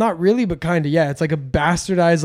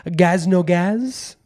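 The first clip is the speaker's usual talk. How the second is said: put-on French waitress accent. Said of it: "waitresses coming to your table and be like".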